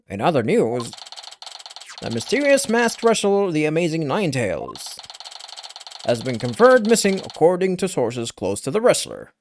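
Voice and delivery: measured news bulletin reading. Acted. Newscaster reporting a missing wrestler, news read.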